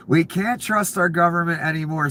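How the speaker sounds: her line read back with a mild sneer; lightly mock her words; a hint of ridicule on her line; mocking quote. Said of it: "says the puppy killer".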